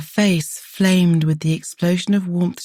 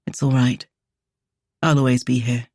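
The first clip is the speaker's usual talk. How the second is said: murmured; 4 semitones lower than usual. A narrator's reading. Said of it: "simply murmured".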